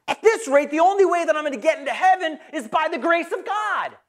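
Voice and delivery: comic exasperated cry; laughing punchline shout. Retold or imitated.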